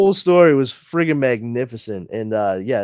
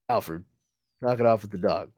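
a hint of low brooding Batman; mildly lowered hero voice; lightly voiced Batman; 5 semitones lower, 4 dB quieter than usual. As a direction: grumble at the butler in a lowered voice. Batman voiced scolding Alfred.

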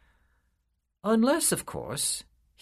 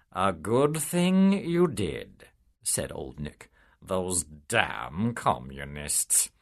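smooth devil; 4 semitones lower, much slower than usual. Acted. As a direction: drawl it like a slick devil. Old Nick agrees slyly.

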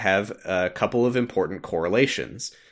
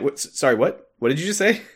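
mock-baffled, rising pitch; retold bewilderment; 5 semitones higher, much faster than usual. The others react to the master, mock-baffled. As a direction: do a confused double-take, voice climbing at the end.

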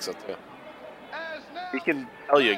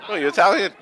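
imitating a stranger; 9 semitones higher, 5 dB louder than usual. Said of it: "somebody thought I was Italian".

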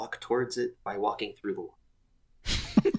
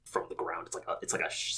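hushed whispered call; whisper shout; 6 dB quieter, much faster than usual. Acted. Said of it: "slight whisper shout".

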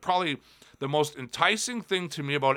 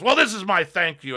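raised mock promo voice; Jericho; 4 semitones higher, 3 dB louder than usual. Champion pointing at the title belt, imitated brash declaration. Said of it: "just cut this promo on everybody".

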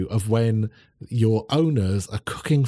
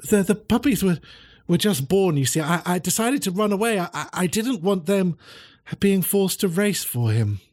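higher greyhound voice; 7 semitones higher than usual. Acted.

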